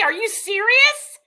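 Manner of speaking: slow, loud "Are you serious"; loud disbelief. Real, not acted. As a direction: stretch it out, outraged. Disbelief at Purple's post.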